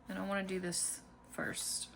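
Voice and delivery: real soft whisper to herself. Real, not acted. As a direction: whisper it as a private aside. Quiet aside while crafting.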